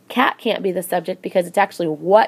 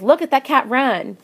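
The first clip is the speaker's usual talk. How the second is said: excited exclamation; 5 semitones higher than usual. Shown as a demonstration. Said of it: "I think that's gonna be exclamatory".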